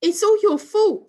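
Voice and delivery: high, loud accusing shout; angry blame. A narrator's reading. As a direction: blame him at full pitch. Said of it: "said Sue".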